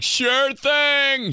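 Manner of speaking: high, bright eager reply; eager husband. Acted. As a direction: chirp it back eagerly. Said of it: "The husband's like".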